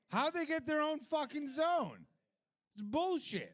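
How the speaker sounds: high, loud indignant squawk; outraged rant. Real, not acted. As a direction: rant like it's a personal insult. Ranting about Japan's own zone.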